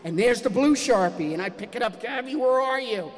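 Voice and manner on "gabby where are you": retold dad's raised-pitch call; exasperated calling out. Father upstairs hunting daughter, calls out exasperatedly. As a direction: call for the child with mounting impatience.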